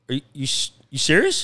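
can't believe the news; disbelief. Retold or imitated. Young worker doubting his boss's job offer, surprised. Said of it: "I go".

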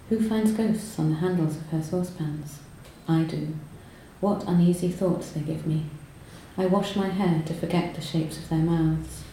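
measured, unhurried poetry reading; lightly heightened reading of her own poem. Acted. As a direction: read each stanza as a poem, letting lines land. Reads her own poem aloud.

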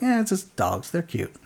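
soft, offhand brush-off; dismissive shrug. Retold or imitated. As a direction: shrug it off quietly, trailing down. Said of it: "I'm just like".

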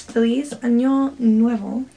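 "Feliz Año Nuevo" said slowly as a learner's Spanish; careful Spanish pronunciation. Shown as a demonstration. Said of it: "learn how to say these".

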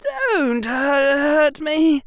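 a high, broken plea with a stumble; faltering plea. A narrator's reading. Harry begs Derek not to hurt him, faltering. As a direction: beg in a shaky, breaking voice. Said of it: "his voice faltering".

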